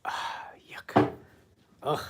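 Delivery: whispered ah, yuck; disgusted whisper. Real, not acted. Painter dislikes a stroke.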